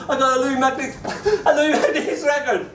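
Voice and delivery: high, laughing announcement of a prize; excited child. Retold or imitated. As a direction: re-enact a thrilled kid showing off. Child announces record to frantic parents.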